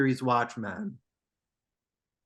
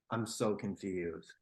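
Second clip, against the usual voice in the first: baffled mumble; 9 semitones lower, 13 dB quieter than usual. Real, not acted. Baffled by name pronunciation.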